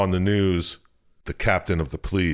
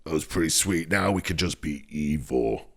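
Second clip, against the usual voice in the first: mock evil demon; 2 semitones lower than usual. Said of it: "The darkness is like".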